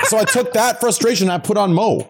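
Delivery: high-pitched, laughing through the story; laughing while telling. Real, not acted. To friends about being looted, laughing. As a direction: laugh it out as the frustration spills over. Laughing retelling game frustration.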